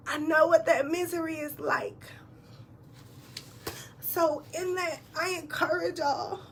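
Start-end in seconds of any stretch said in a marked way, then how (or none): 0.1-2.0 whispered through tears, barely voiced; tearful whisper. Real, not acted. Repeating the line to viewers through tears, whispered. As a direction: breathe it out through held-back tears. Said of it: "I'm not gonna cry".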